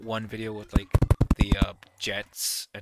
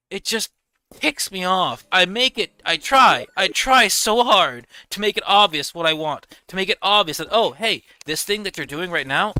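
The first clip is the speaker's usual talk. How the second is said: much higher and louder, exasperated pleading; frustrated venting; 7 semitones higher, 10 dB louder than usual. Real, not acted. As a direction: rant about not being understood.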